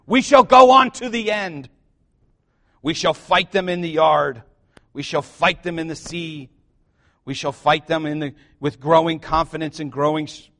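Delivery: lightly voiced wartime orator speech; a hint of a grand wartime address; Winston Churchill. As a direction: declaim like a rousing war leader. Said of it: "that quote from Winston Churchill".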